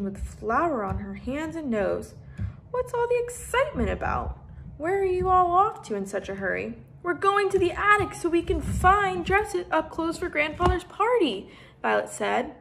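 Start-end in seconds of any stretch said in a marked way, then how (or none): 2.7-6.8 much higher, voiced older woman; housekeeper voice. Mrs McGregor voiced in story. 7.0-11.5 put-on higher, louder rushed girl; out of breath from running; breathless. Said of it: "catching her breath".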